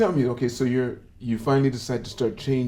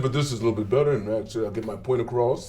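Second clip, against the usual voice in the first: lower, deliberate deep voice; low put-on voice; 4 semitones lower than usual. Shown as a demonstration. Host replaying his deep voice to barracks kids. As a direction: drop the pitch low as the proper voice. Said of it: "if I speak like this".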